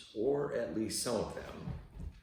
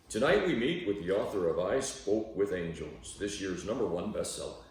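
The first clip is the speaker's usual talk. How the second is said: lightly hammed-up talk-show host intro, a bit louder; mock TV host; 3 dB louder than usual. Imagined TV host introducing the author of the bestseller, mock announcer voice.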